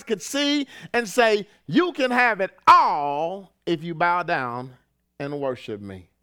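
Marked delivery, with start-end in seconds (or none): 1.7-6.1 low, slow tempting voice; a hint of a sly tempter; devil tempter. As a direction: lure him in like the devil.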